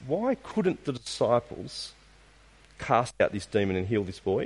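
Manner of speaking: a searching, drawn-out "Why couldn't the disciples"; slow, pointed repeat. Shown as a demonstration. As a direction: ask it again slowly, letting "Why" hang. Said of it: "Have you thought about this?".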